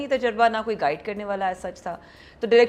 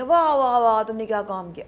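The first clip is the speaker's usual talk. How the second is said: mock gushing praise; 5 dB louder than usual. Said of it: "ایسا نہیں کہیں گے کبھی".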